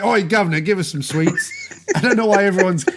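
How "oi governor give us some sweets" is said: put-on Cockney street kid; mock Cockney. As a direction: beg like a cheeky Cockney urchin. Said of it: "everyone's Cockney this episode".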